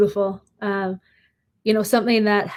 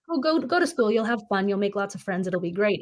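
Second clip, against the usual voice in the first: 1 breezy dismissive parent. Retold or imitated. Parent brushing off child's fear.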